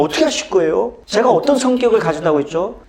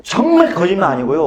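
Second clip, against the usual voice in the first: ordinary delivery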